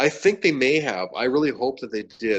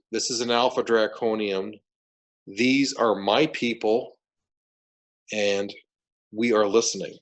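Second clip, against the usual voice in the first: authority. Retold or imitated. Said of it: "I said it with such authority".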